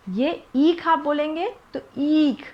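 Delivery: ईख with the ई stretched long; teacher stretching ईख to show the long vowel; long ee demo. Shown as a demonstration. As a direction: draw out the ई in ईख. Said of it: "ई थोड़ा सा आपका लंबा जाएगा".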